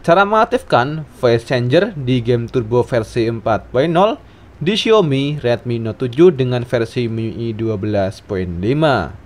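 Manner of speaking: usual speaking voice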